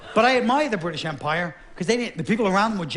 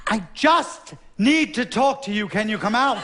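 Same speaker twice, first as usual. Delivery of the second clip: put-on drunk pleading; 4 semitones higher than usual.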